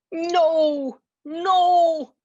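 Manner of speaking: high, loud goblin shriek; shrill high goblin protest; goblin screaming. Acted. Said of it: "the goblin screamed".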